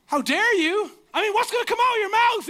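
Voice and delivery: high, loud, panicked voice; hammed-up alarmed yelling; mock outrage. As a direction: build to a comic high-pitched shout. Acting out panic at her reaction.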